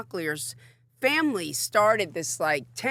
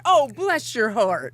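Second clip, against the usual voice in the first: mock sweet dismissal; 4 dB louder, slower than usual. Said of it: "I'm like on the red carpet".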